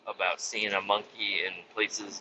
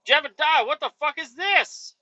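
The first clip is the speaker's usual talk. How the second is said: incredulous call; 14 semitones higher than usual. Retold or imitated. Driver confronting the Amish man about the monkey, high and incredulous. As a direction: call him out in mock shock. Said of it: "I don't know his name".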